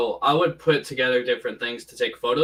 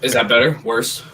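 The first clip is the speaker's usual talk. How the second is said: tinny mic, like inside a can; tin can sound; 8 dB louder than usual. Real, not acted. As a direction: speak through a cheap tinny microphone. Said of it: "you're just in a bigger tin can".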